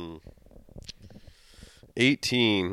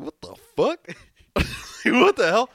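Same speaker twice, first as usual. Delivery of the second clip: shouting in shock, high and loud; retold shout; 12 semitones higher, 8 dB louder than usual. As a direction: yell it as if finding the hamster gone. Shocked at the empty hamster ball.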